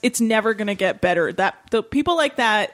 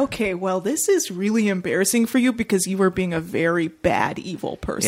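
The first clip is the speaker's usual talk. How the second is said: mock condescending; 3 semitones lower than usual. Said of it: "sad attempt where you're like".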